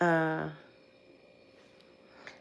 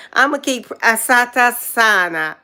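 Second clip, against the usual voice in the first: laughing; 2 semitones higher, 4 dB louder, slower than usual. Real, not acted.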